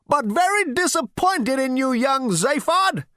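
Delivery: put-on high, loud elderly rebuke; disapproving old great-grandfather. Ancestor rebukes young Zaphod, high and disapproving. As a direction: scold him, drawing out the name.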